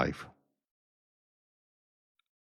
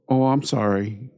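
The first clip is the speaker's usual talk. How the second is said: breezy insincere sorry, pitched up; lightly mimicking a careless apology; mock apology; 4 semitones higher than usual. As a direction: toss off a hollow sorry. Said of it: "that's exactly how they say it".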